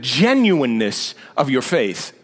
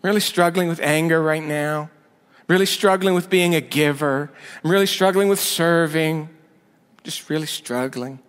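whiny struggler. Retold or imitated. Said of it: "That's how I sound to myself".

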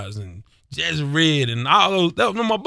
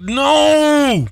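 exasperated shout; 9 semitones higher than usual. Retold or imitated.

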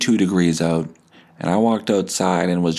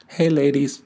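higher, leering "Hey, ladies"; creepy hey ladies; 7 semitones higher than usual. Shown as a demonstration. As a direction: say it like a sleazy flirt. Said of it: "if I say it like that".

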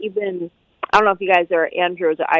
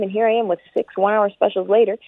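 ordinary talk, nothing marked

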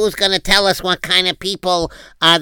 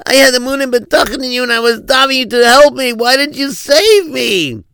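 drowned man complaining; 3 semitones higher, 3 dB louder than usual. Acted. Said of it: "can you do the same".

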